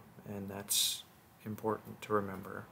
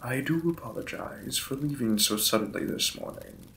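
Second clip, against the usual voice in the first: courteous lord apologizing to his new wife; lightly voiced lord's role, close to own voice; Victorian lord; 3 semitones higher, 4 dB louder than usual. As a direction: play the polite, slightly shy vampire lord.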